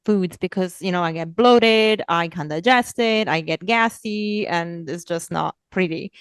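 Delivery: whiny excuse. Retold or imitated. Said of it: "give the excuse that".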